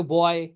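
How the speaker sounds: "बॉय" gliding o to i; pronunciation demo. Shown as a demonstration. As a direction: model "बॉय" slowly. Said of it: "बॉय आप पढ़ रहे हो". ("बॉय" ओ से आई तक खींचकर)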